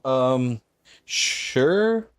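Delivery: reluctant agreement with a lifted pitch; bothered. Real, not acted. Answering an invite to run a sigil, bothered. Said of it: "You sounded so bothered when you answered".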